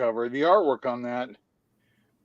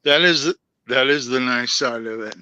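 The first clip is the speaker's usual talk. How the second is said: hiccups breaking the words; hiccuping. Real, not acted. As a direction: talk between hiccups. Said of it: "I keep hiccup-, hiccuping".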